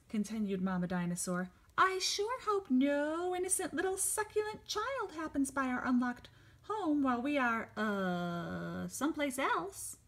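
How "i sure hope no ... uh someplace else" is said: high, sly, hungry villain voice; sly scheming villain. Acted. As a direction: purr over the succulent child. Mama Dinosaur scheming voice.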